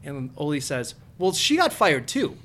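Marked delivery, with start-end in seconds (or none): 1.2-2.4 put-on South Dakota accent. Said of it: "I like how you did the South, uh, Dakota".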